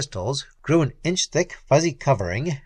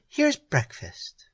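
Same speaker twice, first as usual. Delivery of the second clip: cool villainess; 3 semitones higher, slower than usual. Acted. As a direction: toy with him calmly. Peri voice.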